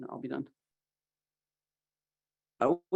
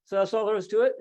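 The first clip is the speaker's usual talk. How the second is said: pitched up high and louder, marvelling; a mild mock of dad's wonder; quoting an astonished father, raised and loud; amazed question; 7 semitones higher, 6 dB louder, faster than usual. Dad amazed at caught salmon.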